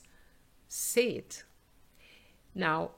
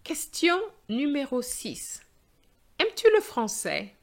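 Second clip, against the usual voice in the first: higher, louder exam announcer; loud question read-out; 8 semitones higher, 8 dB louder than usual. Shown as a demonstration. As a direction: project the question to the class. Reads exam question aloud.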